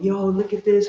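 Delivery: high-pitched mock crowd yell; imitated yelling. Friends planning to yell at the performer, mock yelling. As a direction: act out calling excitedly, not at full scream. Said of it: "start yelling, screaming".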